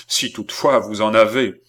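loud, scornful taunt; scornful cry. Acted. Philippe taunts the count's courage, crying out. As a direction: fling it out as a jibe. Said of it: "s'écria Philippe".

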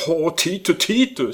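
high, loud German cry; cri de joie. A narrator's reading. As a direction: lover exclaiming in delight. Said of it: "s'écria Hermann". (s'écrie avec accent allemand)

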